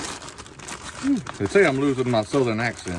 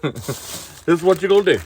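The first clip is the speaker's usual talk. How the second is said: higher, louder, slower imitation of his daughter; mock-bossy retelling, drawn out and raised; imitating daughter; 8 semitones higher, 6 dB louder, slower than usual. Dad retells his daughter laying out the cooking plan, imitating her. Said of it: "She was like, "Daddy, this is what".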